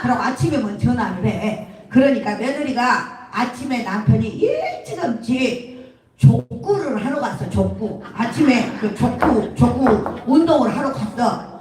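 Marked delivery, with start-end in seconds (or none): none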